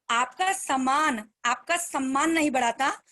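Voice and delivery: slow and weighty, "आपका" leaned on; slow key line. Shown as a demonstration. Speaker repeating her motto to the team, slowly. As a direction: let the saying sink in, word by word. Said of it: "ध्यान से सुनना".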